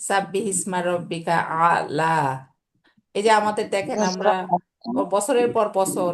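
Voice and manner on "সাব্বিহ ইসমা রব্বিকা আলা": slow, measured recitation of the verse; slow Quran recitation; Quranic recitation. Shown as a demonstration. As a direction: recite it slowly as in prayer. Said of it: "হলকের নিচে থেকে শুরু হইয়া মাঝখানে আলা".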